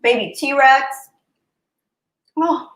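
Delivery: high gushing squeal; excited squeal. Real, not acted. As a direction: squeal with delight. Squealing over baby T-Rex.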